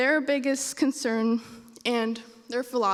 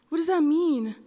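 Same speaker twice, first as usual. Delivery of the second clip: put-on confused child; 4 semitones higher than usual. Confused child asks the caller.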